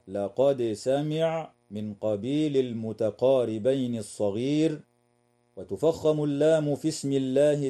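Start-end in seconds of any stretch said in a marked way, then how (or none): 0.1-1.5 لقد سمع with the dal sounded clearly before the sin. Shown as a demonstration. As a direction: keep the dal of لقد distinct. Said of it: "تظهر الدال عند السين". (إظهار الدال عند السين)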